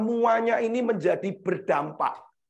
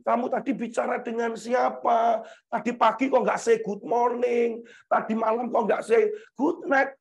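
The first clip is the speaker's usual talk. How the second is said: mock a clingy, possessive lover; possessive partner; 2 semitones higher than usual. Preacher mimics possessive lover quizzing sweetheart, clingy nagging. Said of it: "terjadilah yang namanya posesif".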